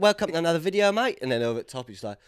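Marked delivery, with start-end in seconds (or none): 0.0-1.2 high, loud mock southern English; put-on southern English accent. Yorkshireman imagining his future southern videos, mock southern accent. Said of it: "doing a few videos down south".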